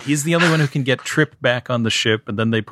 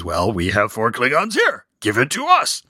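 Uncle Phil. Retold or imitated. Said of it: "the Uncle Phil one, says".

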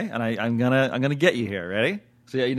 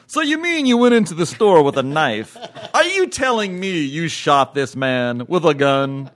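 expository TV detective; 3 semitones higher, 4 dB louder than usual. Acted. Parodies expository television dialogue.

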